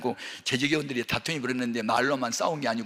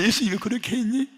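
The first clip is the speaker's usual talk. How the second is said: gentler rebuke; 8 semitones higher, 4 dB louder than usual. Retold or imitated. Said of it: "막 그런 책망이 오는 거예요".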